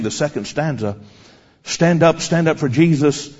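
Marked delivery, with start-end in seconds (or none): 1.6-3.3 slow, stately verse reading with pauses; hymn recitation. Retold or imitated. Preacher reciting the girl's second stanza, slow measured declaiming. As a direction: declaim the hymn line by line, drawing out words.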